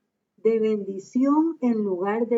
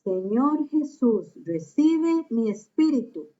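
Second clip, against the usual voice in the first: lightly voiced dying martyr commending his spirit; Stephen praying; 2 semitones higher, slower than usual. Stephen praying to Jesus as he is stoned, slow and solemn. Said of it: "Esteban oró diciendo".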